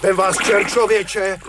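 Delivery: an irritated fisherman shouting off a pest; gruff cursing. Acted. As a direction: bark at the swimmer to stay away. Fisherman curses approaching swimmer.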